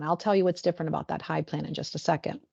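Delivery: fast soft whisper; a quick confiding whisper; whispered aside. Real, not acted.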